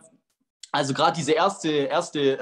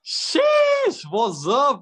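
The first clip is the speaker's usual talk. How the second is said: gym bro; 8 semitones higher, 5 dB louder, much slower than usual. Real, not acted. Hype streamer greeting on stage.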